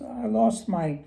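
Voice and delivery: jumps up high on the woodsman's reply. Retold or imitated.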